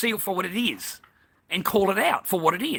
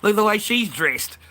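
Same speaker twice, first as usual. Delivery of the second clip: louder, pointed jab; raised retort; 5 semitones higher, 4 dB louder than usual. Retold or imitated. Customer snaps back at the cashier, raised voice. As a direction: fire it back at her. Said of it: "So I said to the lady".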